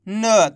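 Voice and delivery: न as a short half sound, without the full "aa"; half-pronounced letter. Shown as a demonstration. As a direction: say न alone as a word-final consonant. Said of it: "उच्चारण कैसे करेंगे". (न का आधा उच्चारण)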